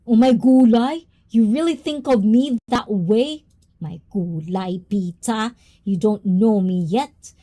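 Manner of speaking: put-on a jokey Filipina accent, teasing back. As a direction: play up a mock Filipina accent, half offended. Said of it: "Oh, is that how's the accent?".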